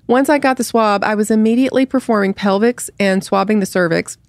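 even, straight article reading; mock news read. Reads a satirical article aloud.

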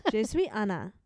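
a light attempt at a French accent. Shown as a demonstration. Repeating the Duolingo phrase for a friend, French accent. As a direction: introduce yourself with a French accent. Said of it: "That's me doing a French accent".

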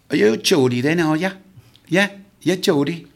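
put-on loud old guardsman. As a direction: bellow across the bar like a proud guardsman. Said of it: "this other old guy further down the bar said".

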